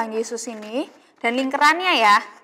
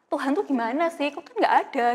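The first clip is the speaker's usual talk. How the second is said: put-on doubting child; 2 semitones higher than usual.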